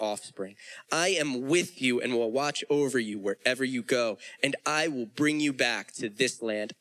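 solemn read of God's promise; preacher reading God's words from Genesis; scripture reading. Acted. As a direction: let the promise land, steady and grave.

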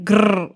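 "grrr" with a long trilled R; rolled R. Shown as a demonstration. Showing how Scots don't say it, heavily rolled "grrr". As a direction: overdo the roll on "grrr". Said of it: "very good at rolling it".

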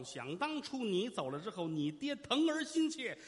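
theatrical sorrow, drawn out and swelling; grieving mother. Acted. Mother recounts father's death.

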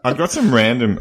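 high, squeaky chipmunk voice; talking like you've inhaled helium. Real, not acted. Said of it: "Why does he still sound like a chipmunk".

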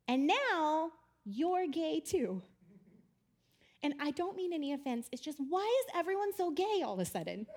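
a hint of a bewildered grandma, halting then half-laughing; puzzled old lady. Grandma at the town hall asks her question, lightly voiced and baffled. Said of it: "She said".

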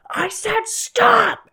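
high, loud drawn-out yell; screaming command. Retold or imitated. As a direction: scream it as a furious order. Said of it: "when she screams".

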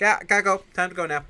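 panicked high yelp; freaking out. Retold or imitated. Vincent panicking as he flees the party, high panicked yelp. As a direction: blurt it in a mock panic.

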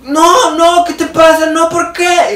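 put-on high, loud pleading girl on the phone; imitating a desperate schoolgirl pleading with her boyfriend; pleading teen girl. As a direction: beg him in a high whiny voice.

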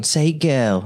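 put-on "Say girl" as an English person says it; retold English accent on "girl". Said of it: "an English person going".

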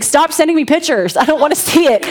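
mock the husband's squeamish plea. Husband in a team meeting begging his wife to stop, lightly mimicked.

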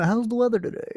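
mock polite weather talk; mock small talk. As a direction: play the awkward chit-chat opener. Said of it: "this is a classic, the kind of, like, a small talk thing".

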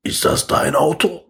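slow, lightly voiced drunk; drunk homeless man. Drunk street man asking about the car, lightly imitated. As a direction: draw it out like a tipsy stranger. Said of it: "so ein besoffener Straßenpenner zu mir".

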